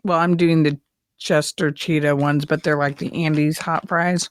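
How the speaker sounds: talking while crunching chips. Real, not acted. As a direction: mouth full of chips. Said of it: "Sorry if you hear me crunching over here".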